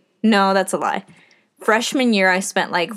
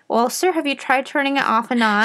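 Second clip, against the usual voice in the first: tech support voice; 4 semitones higher than usual. Retold or imitated. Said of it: "puts a headset on".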